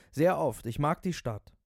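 a hint of an eager stranger on a train; barefoot passenger.

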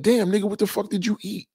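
high, teasing disgusted jab; mock disgust. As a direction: rib your friend about the stink. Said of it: "You're like".

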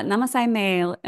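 Indonesian spoken with a Latvian accent. Real, not acted. Asked for a taste of Indonesian, Latvian accent. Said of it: "like, a Latvian accent".

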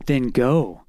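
lightly voiced Superman; a half-hearted superhero put-on. Reader voices Clark urging Bruce, weak Superman voice. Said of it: "your Superman voice is terrible".

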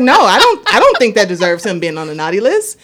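loud voice, acting for the kid to overhear; stage-whisper turned loud, pleading with Santa; fake phone call. Mom fakes phone call with Santa.

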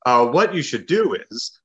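lightly put-on advice-giver's voice; Wesley. Wesley advising a husband to use neighbors, lightly imitated. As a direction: give earnest bad advice in a slight impression. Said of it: "this is my best Wesley voice".

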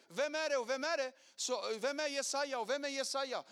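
hammed-up preacher call; fiery preacher. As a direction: fire up the room with the question. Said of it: "han eldar upp hela rummet".

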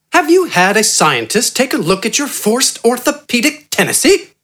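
high, genteel, self-assured bargaining voice; eccentric doctor Wither. A narrator's reading. Wither smoothly bargaining with Gafgarn for his help. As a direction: purr the offer like a smug English gentleman.

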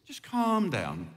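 calming inner voice. Retold or imitated. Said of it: "kind of a voice is going".

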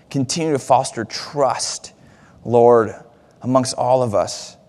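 earnest pastoral prayer voice; closing prayer. Acted. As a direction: pray for the church, unhurried and sincere.

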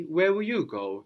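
high, loud question with weight on "you"; stress on YOU. Shown as a demonstration. Teacher asking for emphatic you, stress on "you". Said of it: "emphasizing the word for you".

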